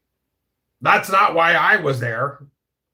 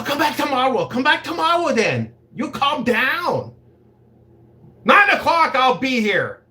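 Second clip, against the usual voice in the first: high, pleading mock accent; imitating Asian lady's accent; 9 semitones higher than usual. Madam offering tomorrow's free massage, imitated accent. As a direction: coax him in an imitated accented voice. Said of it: "impression of the Asian lady's voice".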